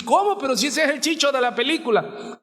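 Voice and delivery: a very high, startled gasp of disbelief; shocked moviegoer. Retold or imitated. Viewer sees the character Chicho killed and cries out in surprise. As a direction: react like a viewer blindsided by the plot.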